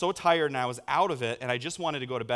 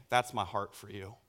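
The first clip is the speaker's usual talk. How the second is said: God speaking tenderly; 5 semitones lower than usual. Acted. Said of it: "like God was saying".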